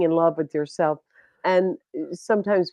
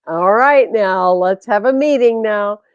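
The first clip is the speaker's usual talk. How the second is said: loud, higher, playful firmness; stronger talk; 3 semitones higher, 6 dB louder than usual. Acted. Speaker calls the divine to a meeting, firm and forceful. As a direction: take charge, calling the divine to order. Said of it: "I talk a little stronger".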